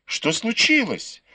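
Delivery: startled question jumping high; удивлённый возглас. A narrator's reading. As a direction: ask it in sudden alarm, pitch leaping up. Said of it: "воскликнула она". (встревоженный возглас, голос взлетает вверх)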